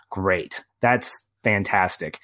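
slow, unimpressed mock praise; deadpan sarcasm. Host reacts to starting anime with a war movie, deadpan sarcasm. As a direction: drag out the praise with dry irony. Ironic reaction to a somber pick.

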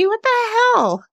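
high, slow exclamation of disbelief; exclaimed disbelief. Real, not acted. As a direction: drag it out in amused disbelief. Exasperated exclamation about crying.

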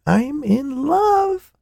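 high, slow, gushing delight; pleased with herself. A narrator's reading. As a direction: savour it, very pleased. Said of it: "enormously pleased with herself".

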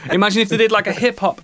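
giggling through the words; laughing. Real, not acted. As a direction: laugh as you say it. Laughing while speaking.

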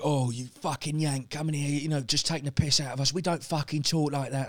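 lightly put-on British heckler; a hint of an angry local mocking him; mock British accent. Imitating Brits mocking his accent, light British twang. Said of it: "A lot of people are like".

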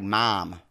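"Mom" with a wide open vowel; "Mom" as "Mahm", jaw dropped; Omaha pronunciation. Shown as a demonstration. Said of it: "we do say".

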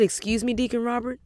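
retold startled pitch jump, questioning; taken aback. Woman hearing her birth year from the deacon, incredulous.

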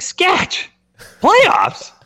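high squeaky Boston accent impression. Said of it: "Batesy had this Boston accent".

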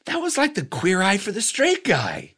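excited announcement. Retold or imitated. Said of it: "I said".

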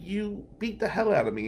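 acted-out incredulous reply; retold disbelief. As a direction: protest in baffled disbelief, voice lifted high. Retold protest to her friendly message.

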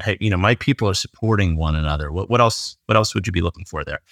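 ordinary talk, nothing marked

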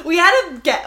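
high, loud laughing words. Real, not acted. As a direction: laugh through it. Laughing at memory.

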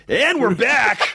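high, slow, stretched DJ announcement; radio DJ voice. Retold or imitated. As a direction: drag out the DJ catchphrase. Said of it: "his whole thing was that he would always just say".

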